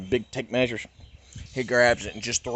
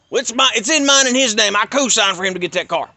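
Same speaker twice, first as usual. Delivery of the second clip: high, louder whiny father voice; mocking his dad; 9 semitones higher, 6 dB louder than usual. Dad answers the cop.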